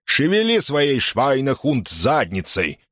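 slow, hammed-up German accent; mock German accent. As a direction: mimic a German accent mockingly. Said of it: "пародируя немецкий акцент Мюллера".

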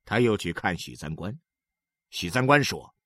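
usual speaking voice

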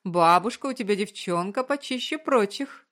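hammed-up grandma boasting; theatrical proclamation. A narrator's reading. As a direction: proclaim it like a stage diva, playfully. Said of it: "театрально провозгласила она".

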